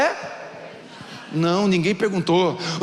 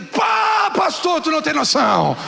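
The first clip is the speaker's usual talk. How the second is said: euphoric shout; 8 semitones higher than usual. Retold or imitated. Danilo bursting in on the pastor at the cafeteria, euphoric shout. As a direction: shout it like you can't contain yourself. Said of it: "nesse tom de voz".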